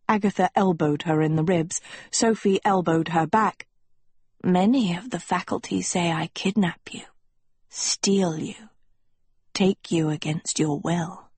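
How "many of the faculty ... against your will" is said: lightly voiced schoolmaster, measured and hushed; understated, whispery authority figure.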